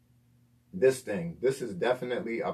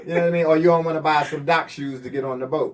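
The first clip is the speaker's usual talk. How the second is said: laughing; 5 semitones higher, 8 dB louder than usual. Real, not acted. Laughing through the joke.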